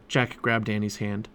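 ordinary delivery

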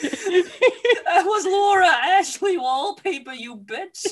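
slow, high, loud indignant owner; mock posh outrage. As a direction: drag it out, scandalised. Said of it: "They come in and go".

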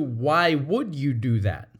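"would" leaned on, accusatory; accusing question. Shown as a demonstration. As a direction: stress on would, blaming. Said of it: "As opposed to".

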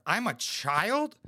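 slow, drawn-out outraged question; offended disbelief. Pretend. Pretending to be the insulted husband, slow offended disbelief. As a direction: act insulted, stretching out I'm a child. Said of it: "if I had a bitch and she said that".

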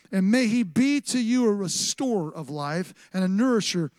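emphatic preacher's Bible reading; scripture proclamation. Acted. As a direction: declaim the verse with swelling force. Reads scripture aloud as proclamation.

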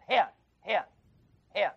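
"Hen" said as a breathy h then short e and n, repeated; Greek hen. Shown as a demonstration. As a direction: sound out "hen" with a rough breathing, h breathed before the e. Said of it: "a E N with a rough breathing".

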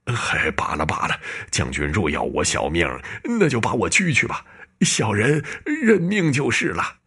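slightly shaky, resigned pleading; a touch of trembling resignation. Acted. Dying painter resigning himself to the ghost, mildly trembling. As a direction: give up your life with a quavering voice. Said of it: "抖得话音都像在哭".

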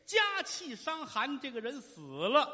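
theatrical sorrow, drawn out and swelling; grieving mother. Acted. Mother recounts father's death.

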